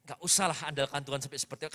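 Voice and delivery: low, soft, hurried mock excuse; offhand dismissal. Preacher imitating believers who feel fine when healthy, offhand dismissal. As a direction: shrug it off quickly under the breath, imitating the complacent.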